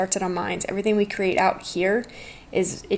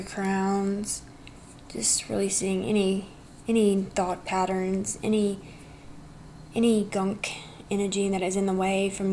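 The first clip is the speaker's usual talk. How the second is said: soft healing voice; 4 dB quieter than usual. Acted. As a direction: soothe them gently.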